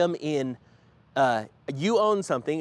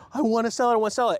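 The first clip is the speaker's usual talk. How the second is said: higher, urgent mock pleading; mock freak-out; 6 semitones higher, much faster than usual. Stuck Coinbase customers wanting to sell, mock freak-out. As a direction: imitate people mildly panicking. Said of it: "freaking out going".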